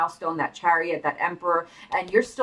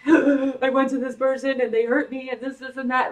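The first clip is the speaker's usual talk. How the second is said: higher, hammed-up tearful whine of a dumped lover; mock whining ex; 6 semitones higher, 4 dB louder than usual. Ex crawling back to the reader, a hammed-up tearful whine. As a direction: play the ex sobbing out their woes, overdone. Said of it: "cry at your feet".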